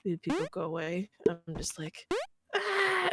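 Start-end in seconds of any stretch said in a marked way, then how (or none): 2.6-3.1 high-pitched short mock scream; demonstrated random scream. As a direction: scream for no reason, held back in volume. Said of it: "start screaming for no reason".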